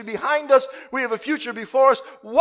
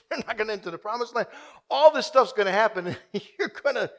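chuckling, quicker words; laughing through it. Real, not acted. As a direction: let the laugh spill in. Laughing at the irony.

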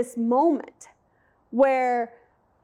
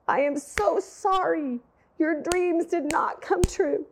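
high, tearful, pleading apology; 6 semitones higher than usual. Retold or imitated. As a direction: pour out a choked-up apology to her son. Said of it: "I started sobbing so hard".

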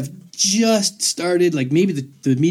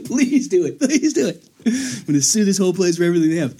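higher, gleeful please do it; mock eager plea; 4 semitones higher than usual. Speaker pretending to beg the man to hit him, mock eager. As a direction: beg him to swing, hammed-up.

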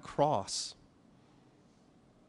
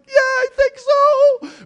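much higher, slow, drawn-out wife's reply; 13 dB louder, much slower than usual. Retold or imitated. Wife agreeing they're under spiritual attack, high and slow. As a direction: stretch it out in a high playful wife voice.

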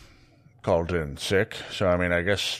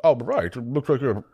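high, flustered, stammering barkeep; an anxious bartender tripping over his words; nervous bartender; 4 semitones higher, 3 dB louder than usual. Acted. Barry asks if he is sick.

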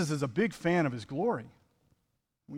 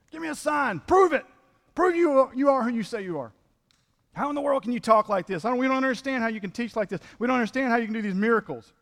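demanding Pharisees; 7 semitones higher than usual. Acted. Preacher voicing Pharisees demanding a sign, high indignant challenge. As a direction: push hard, demand proof.

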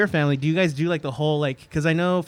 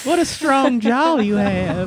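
starlet voice; 5 semitones higher, slower than usual. Retold or imitated. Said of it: "Humphrey Bogart".

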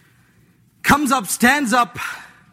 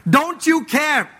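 slow mocking accusation; 4 semitones higher, much slower than usual. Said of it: "questioning the very character of God".

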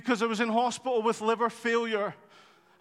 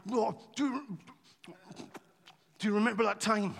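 relaxed chat; 4 dB quieter, faster than usual. Acted. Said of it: "the conversation was probably pretty relaxed".

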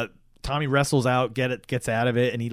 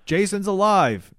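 mock urgent insistence; 6 semitones higher, slower than usual.

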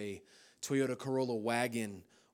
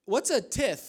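much higher and louder mock puzzlement; confused attendant; 11 semitones higher, 9 dB louder, slower than usual. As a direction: play the baffled gas station guy. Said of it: "attendants would go".

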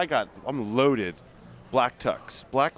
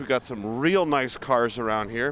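tour host commentary. Pretend. Hosts a street tour.

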